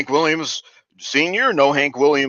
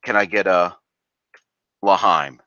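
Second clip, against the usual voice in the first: mock toast call; 4 semitones lower than usual. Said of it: "let me give you a L'chaim instead of".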